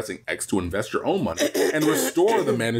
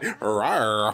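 effeminate dinosaur; 2 semitones lower than usual. Pretend. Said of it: "effeminate one. Be like".

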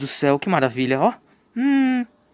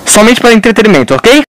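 loud insistence; 3 semitones higher, 13 dB louder than usual. Real, not acted. Defensive loud claim.

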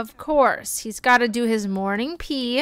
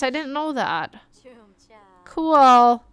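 ordinary talk

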